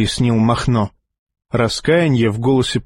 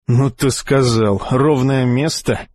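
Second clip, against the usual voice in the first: indignant; slower than usual. Acted. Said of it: "возмутился Махно".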